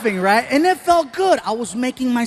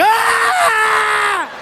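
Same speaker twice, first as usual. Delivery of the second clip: high shouted ah of disgust; a kid's grossed-out shriek; loud high yelp; disgusted scream; 13 semitones higher, 5 dB louder than usual. Retold or imitated. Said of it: "And he's like".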